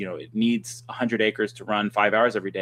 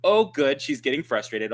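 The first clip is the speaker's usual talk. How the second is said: mocking echo. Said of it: "almost mocking back at me".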